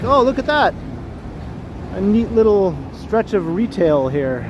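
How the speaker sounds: imitating his own excited wandering self; excited discovery. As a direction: gush like you just found treasure. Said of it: "and then you're like".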